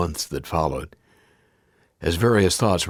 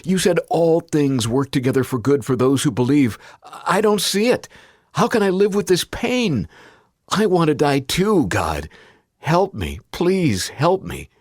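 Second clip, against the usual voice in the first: high, loud, breaking desperation, slowing to a begging close; frantic plea to God; 9 semitones higher, 3 dB louder than usual. Retold or imitated. Father begging God while driving, frantic high plea. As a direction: plead with God as if drowning. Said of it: "my frantic conversation with God".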